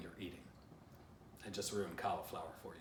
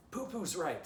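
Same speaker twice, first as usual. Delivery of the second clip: higher, louder call upward; shouting up a tree; 9 semitones higher, 6 dB louder than usual. A narrator's reading. Stick Dog shouts up at the squirrel, higher and louder. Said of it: "Stick Dog shouted up".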